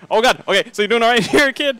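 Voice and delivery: hurried police check-in. Retold or imitated. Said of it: "I'm gonna sound like an auctioneer".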